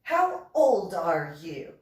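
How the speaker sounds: slow, loud demand, word by word; imitated stern questioning. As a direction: imitate an officer demanding an answer. Commander questioning young recruit.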